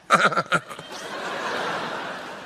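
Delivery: drawn-out put-on voiceless laugh; soft, wheezy mock laughter; imitated woman's laugh. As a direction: mimic that woman's distinctive laugh.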